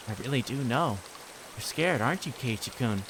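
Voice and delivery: sweetly insistent, with menace underneath; sweet creepy girl. Acted. Reina coaxing Keiichi to talk, creepy sweetness.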